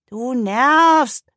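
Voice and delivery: annoyed, loud goat voice; grumpy complaint. A narrator's reading. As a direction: snap it out, fed up. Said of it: "beschwerte sich Zottel".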